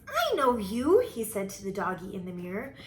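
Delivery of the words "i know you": high, loud kitten voice; pitched-up delighted discovery; excited recognition. A narrator's reading. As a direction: call out to the reflection. Kitten greets his reflection.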